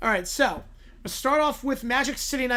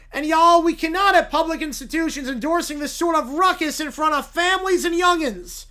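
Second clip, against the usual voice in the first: Southern lawyer; 3 semitones higher than usual. Acted. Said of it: "Southern blue-haired lawyer".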